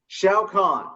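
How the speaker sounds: "Shao Kahn." with a falling, settled tune; flat confirmation. Retold or imitated. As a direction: state "Shao Kahn." as if checking it. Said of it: "I'm like".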